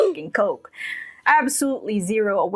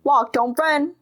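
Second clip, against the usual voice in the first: high, sing-song teacher scolding; preschool teacher voice; 7 semitones higher than usual. Retold or imitated. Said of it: "the lady sounds like a preschool teacher".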